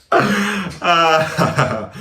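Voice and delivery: high loud burst of laughter. Real, not acted. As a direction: crack up at the message. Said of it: "let me tell you, man".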